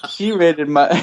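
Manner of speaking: words breaking into laughter; laughing while talking. Real, not acted. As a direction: giggle through the words. Laughing mid-sentence.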